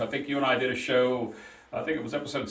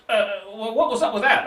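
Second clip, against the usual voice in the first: chuckling through the question, pitched up; teasing laugh; 7 semitones higher, 4 dB louder than usual. Real, not acted. Host teasing his guest about playing craps, laughing. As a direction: laugh while you needle him about it.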